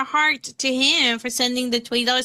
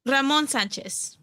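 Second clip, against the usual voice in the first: slow name in a Latina Spanish accent; 2 semitones higher, slower than usual. Shown as a demonstration. Co-host shows streamer the name, Latina accent. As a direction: say it the Spanish way, "Ramon Sanchez". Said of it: "with your Latina accent".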